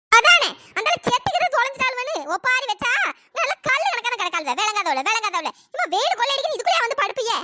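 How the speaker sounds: indignant village telling-off; angry scolding. Acted. Mourner scolding the women napping in coffins, angry scolding. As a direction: scold them for the foolish stunt. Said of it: "ஏன் இப்படி கோவப்படுறீங்க?".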